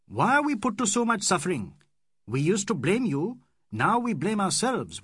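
rising passionate tirade; building to a threat; impassioned. Acted. Aziz warning Fielding of war, impassioned. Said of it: "Aziz's impassioned speech".

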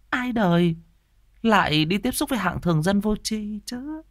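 high, sneering jealous woman; catty gossip. Acted. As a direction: needle her with fake sweetness. Tư Hiền mocking her rival.

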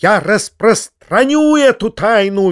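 high, drawn-out defiant cry; squealing. A narrator's reading. Foma defies uncle's warning, squealing. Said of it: "визжал Фома".

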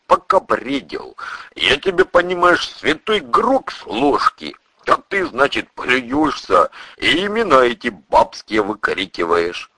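a touch of folksy reproach, lively swings; lightly voiced burly priest. Priest tells the patient about his delirium, lightly reproachful. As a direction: gently scold as the plain-spoken priest.

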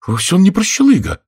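indignant. A narrator's reading. Daughter defending George to her stepmother, indignant. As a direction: flare up in his defence. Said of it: "возмутилась Молли".

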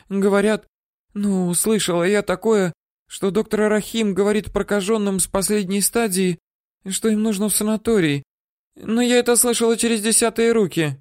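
put-on high squeaky old-woman voice; terrified woman babbling what she knows; squeaking.

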